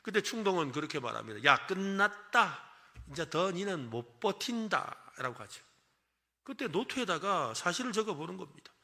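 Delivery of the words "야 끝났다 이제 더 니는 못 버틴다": voice of impulse. Retold or imitated. The voice of impulse speaking.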